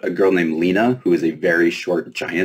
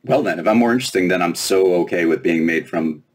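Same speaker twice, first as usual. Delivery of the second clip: sarcastic. Acted. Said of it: "Lena growled sarcastically".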